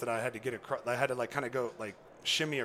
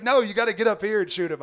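higher, louder insisting; mock insistent guide, louder; insisting loudly; 8 semitones higher, 9 dB louder than usual. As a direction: push him to climb, retold.

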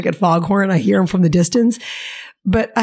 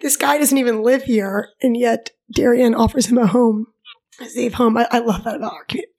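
teary-eyed. Real, not acted. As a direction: still choked up, pushing through. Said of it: "teary-eyed, so I gotta back up".

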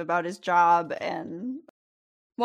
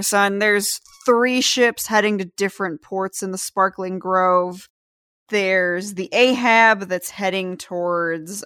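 disapproving dad; 4 dB louder than usual. Acted. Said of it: "giving you that very disapproving dad look".

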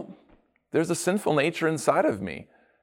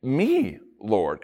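questioning; 2 semitones higher, slower than usual. Retold or imitated. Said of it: "they say it with a question".

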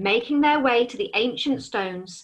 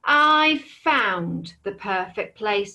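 slow, deliberate dragon; slower than usual. Acted. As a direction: draw it out with menace. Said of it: "said the dragon".

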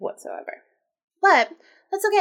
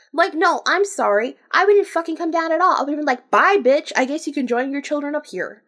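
high, loud, sassy telling-off; indignant rant; 6 semitones higher, 5 dB louder than usual. Acted. Reader telling off the queen about her children, indignant. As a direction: lay into her, voice raised.

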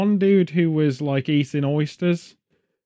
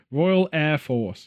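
slow, spelled-out Royal Air Force; slow explaining; 2 semitones lower, much slower than usual. Shown as a demonstration. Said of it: "I'm just gonna tell you internationally".

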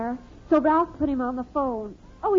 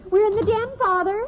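raised, high-pitched answering call; calling back; 7 semitones higher, 3 dB louder than usual. Acted. Daughter answering father from the den, high call. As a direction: call through to the next room.

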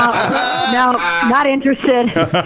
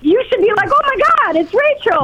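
too loud on phone; 3 semitones higher than usual. Real, not acted. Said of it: "all of our ears are bleeding".

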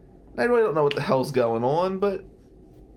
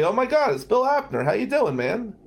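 starstruck fan; 9 semitones higher than usual. Retold or imitated. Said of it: "And I say".

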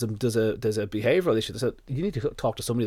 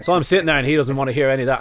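laughing through the words, quick and louder; 4 semitones higher, 8 dB louder, faster than usual. Real, not acted. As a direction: chuckle as you rush the line. Laughing while telling doctor story.

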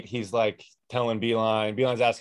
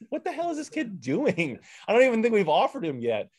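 much higher, retold disbelief; incredulous; 9 semitones higher than usual. Coach recalling seeing a Michigan tag, incredulous. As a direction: imitate your own stunned reaction, pitched high.

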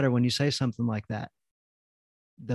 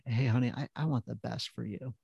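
soft, much quieter, tender; warm and loving; 6 dB quieter than usual. Acted. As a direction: say it gently to your wife. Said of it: "in a warm, loving, caring, excited kind of way".

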